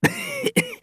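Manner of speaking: high wheezy cough; acted wheezing cough; old man's cough. A narrator's reading. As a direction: cough as an elderly man. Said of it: "coughed and patted his chest".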